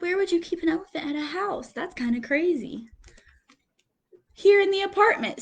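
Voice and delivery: lively picture-book reading with quote voices; reading to children. Acted. Teacher reading picture book to class, lively storytelling. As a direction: read it like story time for little kids.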